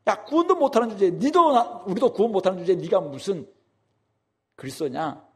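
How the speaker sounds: high contemptuous jeer; scornful taunt. Retold or imitated. Criminal beside Jesus mocking him, scornful. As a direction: sneer down at him. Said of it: "지금 이렇게 비방하는 것입니다".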